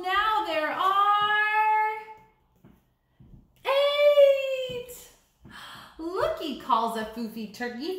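lively sing-song picture book reading; animated storybook voice with playful chants; reading to children. Acted. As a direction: read it like story time for little kids. Teacher reads picture book aloud.

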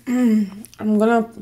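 slow, careful "I'm gonna" after clearing throat; drawn-out restart to correct herself. Real, not acted. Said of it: "up all the type of videos".

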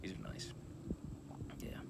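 talking behind held cigar; muffled by hand at mouth; hand and cigar over mouth. Real, not acted. Seen 1: cigar held sideways under nose, hand covers mouth, not clearly inserted.

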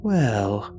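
warm. A narrator's reading. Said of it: "she said warmly".

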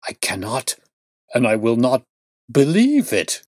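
rising into a desperate cry; crying out in denial. A narrator's reading. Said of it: "cried the banker".

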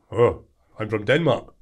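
put-on slow, lightly accented Danish voice; a slowed mock Danish drawl; imitating the Danish guy. The big Danish guy in the bar, slow mock accent. Retelling the Danish guy's words.

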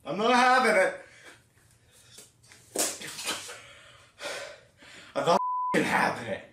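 muffled through thin fabric; speaking with covered mouth; through a stocking mask. Real, not acted. Seen 1: Nylon stocking pulled over whole head and mouth throughout.

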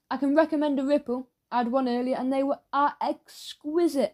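lightly voiced eager shopkeeper; a hint of a keen shopkeeper. Raj pushing sweets.

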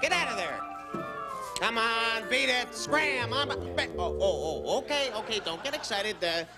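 high startled voice; nervously shooing away mice. Acted.

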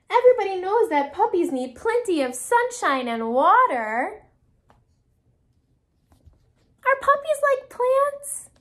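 high, insistent pigeon voice; protest, climbing to a high, slow question; indignant pigeon. Acted. Pigeon protests in story reading.

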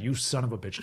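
understated amused cursing; smiling admiration. Retold or imitated. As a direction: lightly imitate a cool teacher smiling. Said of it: "he was smiling".

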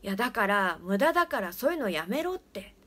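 loud, irritated telling-off; getting angry. Retold or imitated. Father, losing patience, angrily tells his friend to stop. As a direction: snap at the prankster to knock it off. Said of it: "怒りかけて".

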